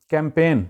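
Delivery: "کیمپین" as kam-PAYN, "a" as in cat; correct pronunciation. Shown as a demonstration. Teacher introduces the word campaign, correct pronunciation. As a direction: open "کیمپین" on "kam" like camera. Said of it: "actual اس کی pronunciation ہے".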